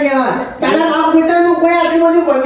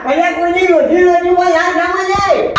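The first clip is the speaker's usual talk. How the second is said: raised protest; 5 semitones higher than usual. Acted. Sarpanch refuses, raising voice.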